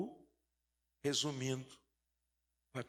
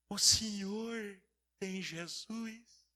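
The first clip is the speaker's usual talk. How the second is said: slow, drawn-out, slightly raised question; innocent boy's question; 4 semitones higher, much slower than usual. Retold or imitated. Preacher voicing the boy asking the doctor, slow and earnest. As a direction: ask it slowly, like a guileless child.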